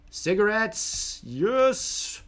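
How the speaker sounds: high, loud burst of joy; triumphant shout of relief; excited cheer. Real, not acted. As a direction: celebrate the find out loud. Finds the cigarettes he wanted.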